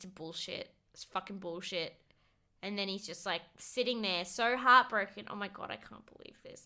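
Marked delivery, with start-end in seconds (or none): 0.0-1.9 put-on mutter under the breath, much quieter. Retelling how a man walked away, imitating him muttering under his breath. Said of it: "under his breath".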